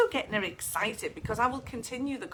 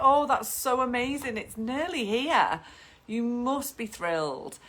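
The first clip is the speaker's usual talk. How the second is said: gushing excitement; 5 semitones higher, 4 dB louder than usual. Acted. Photographer gushes at pregnant client.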